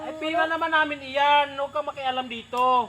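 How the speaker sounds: indignant retort. Acted. Gambler telling a meddler to stay out, indignant. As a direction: push back loudly at someone meddling. Card player snaps at an intruder.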